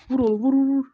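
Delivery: loud, urging shouts of vur; excited cheering. Real, not acted. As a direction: cheer the fighters on loudly. Cheering on fighting mobs. (heyecanla bağırarak tezahürat)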